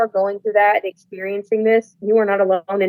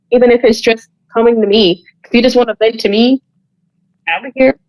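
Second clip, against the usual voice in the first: impassioned plea; 6 dB louder than usual. Real, not acted. Impassioned plea to abuse survivors.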